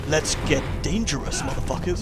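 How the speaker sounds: lightly imitated swaggering cartoon crimefighter; Darkwing Duck. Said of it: "shit-talking Darkwing Duck's voice".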